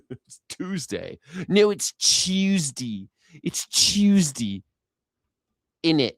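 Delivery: slow, drawn-out mock British "Tuesday"; mock British accent. Shown as a demonstration. Playing with a British "Tuesday, innit", mock British accent. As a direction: stretch "Tuesday" like a Brit, slowly. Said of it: "repeating mock British".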